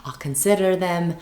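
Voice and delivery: slow, gentle and polite; gently kind. Shown as a demonstration. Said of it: "very gently say it in a very kind way".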